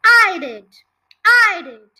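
short, very loud insistence; emphatic loud protest; shouting. A narrator's reading. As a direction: shout it in two hard bursts. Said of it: "George shouted".

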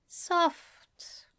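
whispered, barely audible; quiet mumble. A narrator's reading. Alistair mumbling to himself so nobody hears, quiet mumble. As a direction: murmur it under your breath. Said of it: "Alistair mumbled so quietly".

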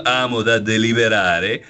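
light mock Roman accent. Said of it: "magari in accento romano".

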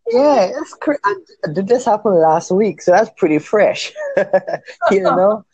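high-pitched, giggly disbelief; real amusement. Real, not acted. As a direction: talk through rising laughter. Laughing over a crazy story.

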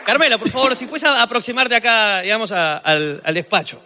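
courteous, hesitant request, pitch settling toward the end; polite summons. Retold or imitated. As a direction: imitate a tactful employer asking the maid over. Demonstrates polite summons to maid.

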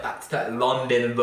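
slow, lightly hammed-up British accent; bad British accent. Teasing a friend's date about his tooth gap, bad British accent. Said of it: "in a really shitty British accent".

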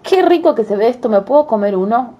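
put-on an excited little girl eyeing treats. Girl voiced in fairy tale.

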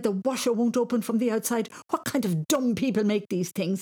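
put-on high, loud exasperated boy; panicked boy. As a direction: cry out in urgent frustration. Boy panicking at stuck washer.

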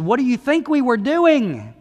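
retold kids' retort. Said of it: "They said".

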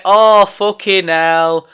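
a mild mock of a listener sneering at the rant; mocking moaning fan. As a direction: mimic a dismissive wrestling fan, a hint of a sneer. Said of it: "They're probably gonna say".

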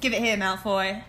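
put-on British film quote; British accent. Co-host practising a Harry Potter line, British accent. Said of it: "this accent".

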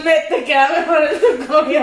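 laughing. Real, not acted. Teasing laughing.

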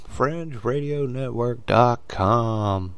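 Fringe Radio Network dot com said slowly, each word set apart; deliberate slow plug of the web address; slow and spelled out. Shown as a demonstration. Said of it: "you can catch me on the Fringe Radio Network dot com".

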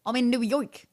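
lightly botched American accent; hesitant Brit-does-American accent; American accent attempt. Shown as a demonstration. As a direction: try American, without much R in York. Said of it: "Say New York in an American accent".

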